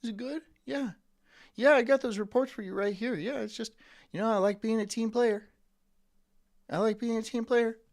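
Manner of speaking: lightly voiced office suck-up; fake-friendly coworker. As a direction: play the eager team player. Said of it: "Do you think I'd be like".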